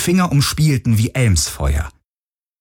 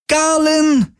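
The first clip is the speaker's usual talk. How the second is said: much higher scream full of pain and fear; pained, frightened scream. A narrator's reading. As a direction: cry out for help in pain. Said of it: "schmerzerfüllt, ängstlich".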